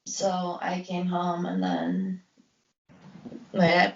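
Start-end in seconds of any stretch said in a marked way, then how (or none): 0.0-2.2 hushed. Real, not acted. Sad end of story.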